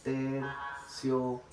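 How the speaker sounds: "terciopelo" slowly in separate syllables, weight on "pe"; graded syllable stress. Shown as a demonstration. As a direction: chant out "terciopelo" slowly, leaning on "pe". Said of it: "He pronunciado en esta gradación". ("terciopelo" pausado, con mayor fuerza en "pe")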